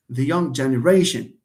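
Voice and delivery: "generation" stressed on RA; the phrase peaks on the RAY of "generation". Shown as a demonstration. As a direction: land on the next-to-last syllable of "generation". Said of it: "ولكن stress على هذا".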